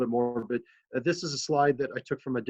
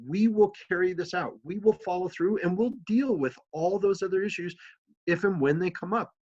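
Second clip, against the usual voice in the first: raised, insistent and earnest, pressing each point home; city manager reassuring a tearful council member, firm and raised; firm reassurance; 6 semitones higher than usual. Retold or imitated. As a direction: talk a friend firmly out of his guilt. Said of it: "And I'm like".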